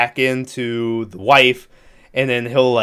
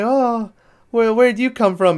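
mock startled wife; 9 semitones higher than usual. Wife finding baby in nursery.

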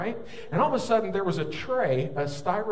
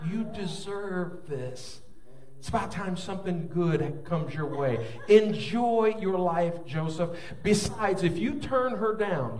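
Satan's coaxing voice; 3 semitones higher, slower than usual. Acted. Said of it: "Satan's whispers".

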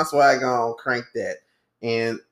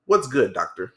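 "doctor" tacked on as a mock title; mildly spruced-up "What's good, doctor"; doctored-up greeting. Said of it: "like, doctor it up".

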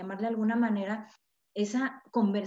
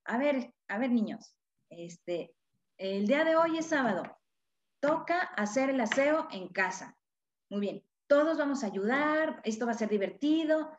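a lightly raised, cheerful mom giving chores; playful parent; 3 semitones higher than usual. Shown as a demonstration. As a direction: sound like a game, not an order. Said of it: "a manera de juego, puedes suavizar".

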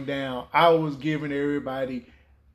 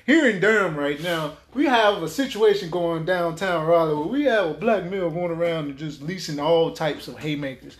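news report. Retold or imitated. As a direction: report the brawl like a local anchor. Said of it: "like a whole news episode going on".

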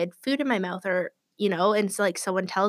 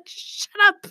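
hissed shut up; 11 semitones higher, 4 dB louder than usual. Retold or imitated. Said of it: "she's like".

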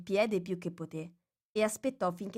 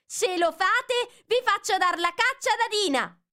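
shouting with all her breath; 14 semitones higher, 6 dB louder than usual. Acted. Alice threatening the animals outside, shouting. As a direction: bellow the threat to scare them off. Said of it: "gridò con tutto il fiato che aveva".

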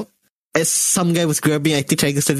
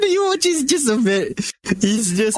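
night-market CD seller; 4 semitones higher than usual. Retold or imitated. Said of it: "the penjual C D at the Pasar Malam".

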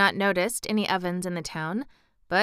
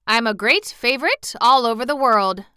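boastful, higher and louder; lightly voiced proud old gentleman bragging; 4 semitones higher, 6 dB louder than usual. Old Johnny Cake boasts to Dorothy, mildly proud. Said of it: "with an air of pride".

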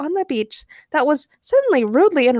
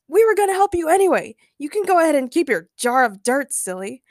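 animated, raised-pitch shout; mildly exasperated shout in a read-aloud; 5 semitones higher, 3 dB louder than usual. A narrator's reading. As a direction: call it out, easing off at the end. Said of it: "Ray shouted".

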